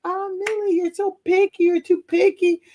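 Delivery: mock sing-song reproach; chiding friends. Friends chiding her, acted.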